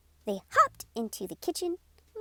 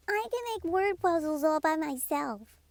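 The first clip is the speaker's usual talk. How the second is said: higher, chirpy storybook bird; bright little bird voice; 5 semitones higher than usual. Acted. Word Bird's lines.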